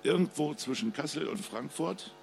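ruhige Krimi-Lesestimme des Autors; Lesung. A narrator's reading. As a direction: spannend vorlesen, wie vor Publikum. Author reads his crime novel. (Autor liest seinen Krimi vor, ruhig und spannend)

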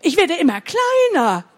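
a hammed-up monster demanding tears; monster roaring. Shrinking monster yelling at the laughing children, mock roar. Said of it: "Aber das Ungeheuer brüllte noch einmal".

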